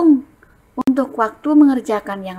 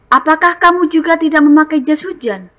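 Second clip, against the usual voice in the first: higher, louder questioning as Benny; reading dialogue; 7 semitones higher, 6 dB louder than usual. Shown as a demonstration. Teacher reading Benny's question to class. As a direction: ask with concern. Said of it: "Bacanya dengan intonasi yang tepat".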